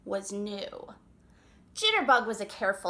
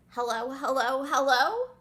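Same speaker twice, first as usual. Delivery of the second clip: nervous hello; 3 dB louder than usual. Acted. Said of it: "said Jitterbug nervously".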